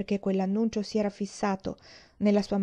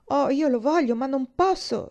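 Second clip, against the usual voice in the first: higher, louder, breaking out; outburst; 6 semitones higher, 5 dB louder than usual. A narrator's reading. Boy giving up his dog, bursting out. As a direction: blurt it out as if it bursts from him. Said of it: "sbottò Roddy".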